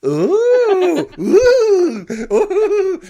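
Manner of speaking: high, loud, laughing ghostly ooh; camp ghost. Pretend. Host clowning a Carry On ghost for Halloween, high camp wail. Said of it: "That's my camp ghost".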